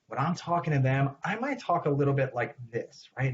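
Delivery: slightly lifted, emphasized inflection; talking to a young child. Shown as a demonstration. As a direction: address a five-year-old with gentle emphasis. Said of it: "this is how I emphasize things".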